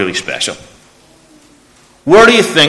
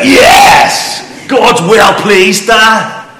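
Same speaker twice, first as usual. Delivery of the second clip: put-on excited boy; 10 semitones higher, 5 dB louder, much slower than usual. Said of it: "He's like".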